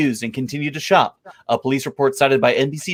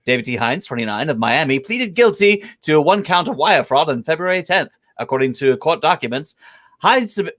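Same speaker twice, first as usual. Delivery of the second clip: radio voice. Shown as a demonstration. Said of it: "I'm doing this one in radio voice".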